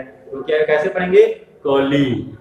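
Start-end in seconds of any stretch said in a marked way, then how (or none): 1.6-2.4 कली with a lengthened final ī; long final vowel. Shown as a demonstration. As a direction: linger on the end of कली. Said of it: "ल पर बड़ी की मात्रा लगाई".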